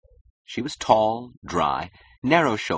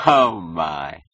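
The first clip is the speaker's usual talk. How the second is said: loud, drawn exclamation; a touch of gushing mockery; mocking amusement; 6 dB louder than usual. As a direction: tease him with mock wonder. Client mocks the young man.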